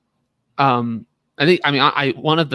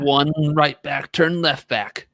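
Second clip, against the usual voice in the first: trailer guy voice; 3 semitones higher than usual. Acted. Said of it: "My trailer guy voice".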